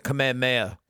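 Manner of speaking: Kamehameha slipped out as kuh-meh-MAY-uh; mispronunciation. Real, not acted. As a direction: say Kamehameha without the h's. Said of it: "Did I say it like that just now?".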